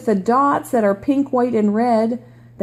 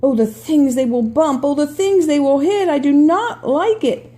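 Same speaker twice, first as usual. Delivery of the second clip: worried fish voice; 3 semitones higher, 3 dB louder than usual. Acted. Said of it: "There's the little worrier".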